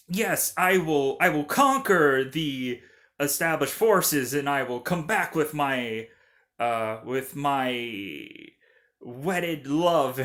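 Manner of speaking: slightly hammed-up, halting heroic vow; mock movie line delivery. Imitating how the film's heroes deliver lines, mildly grandiose. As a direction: declaim it with mock solemnity, a touch grand. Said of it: "it's delivered in the, like, uh".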